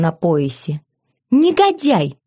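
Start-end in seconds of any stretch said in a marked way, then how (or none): 1.3-2.2 indignant shout. A narrator's reading. Wife insults husband in struggle.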